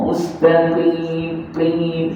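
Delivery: "Mustaqim" slowly with a back-of-throat q; long "qim" launched from a deep uvular q; deep qaf. Shown as a demonstration. Quran teacher drills qaf, "qim" from deep in the throat. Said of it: "itu huruf qaf".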